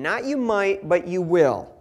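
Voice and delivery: "will" set firmly against "might"; stress on will. Shown as a demonstration. Preacher stressing Jesus' promise to listeners, firm emphasis. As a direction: punch the contrast between "might" and "will". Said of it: "I want you to remember".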